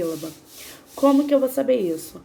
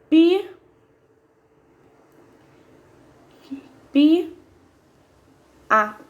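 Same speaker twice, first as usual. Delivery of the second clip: "pi, pi, a" called out higher and louder, pausing between them; syllable by syllable; 6 semitones higher, 6 dB louder, much slower than usual. Shown as a demonstration. Teacher separating pia for students, loud and syllable by syllable. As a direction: sing out each syllable of pia. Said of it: "Quando vamos separar a sílaba".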